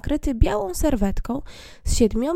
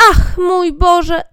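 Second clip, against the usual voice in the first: marvelling cry; 7 semitones higher, 9 dB louder, much slower than usual. Acted. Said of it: "zawołali".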